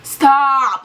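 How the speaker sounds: very slow, drawn-out exasperated moan; groggy annoyed groan. Retold or imitated. Woken by grandma, groaning slow irritated protest. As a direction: drag it out like you've just been woken up. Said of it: "And I'm just like".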